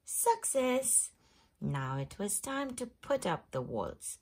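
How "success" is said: higher, louder cheer; triumphant exclamation; excited. A narrator's reading. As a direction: cheer the win. Triumph moment in story.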